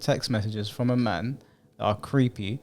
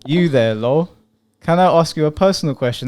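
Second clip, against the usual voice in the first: mock creepy texter; 3 semitones higher, 7 dB louder than usual. Reading the creep's texts.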